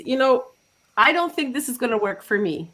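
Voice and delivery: attempted Dutch accent for a doubtful client; Dutch-accented mimicry. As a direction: imitate a skeptical older woman with a Dutch accent. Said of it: "my best attempt at a Dutch accent".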